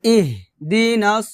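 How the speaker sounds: slow, measured tajweed recitation; syllable-by-syllable Quranic model; full-verse recitation. Shown as a demonstration. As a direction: recite for repetition with long held vowels. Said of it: "আবার".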